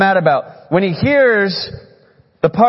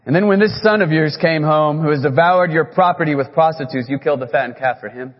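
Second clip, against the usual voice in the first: building rant. Retold or imitated. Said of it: "kinda like this".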